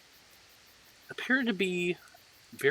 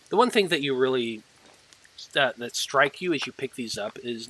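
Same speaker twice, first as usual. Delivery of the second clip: ordinary talk, nothing marked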